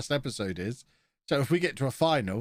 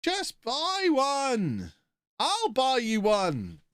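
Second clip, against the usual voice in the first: exasperated bickering; 12 semitones higher, much slower than usual. Real, not acted. Streamer to partner over uncharged batteries, exasperated bickering. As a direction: scold her for not charging them.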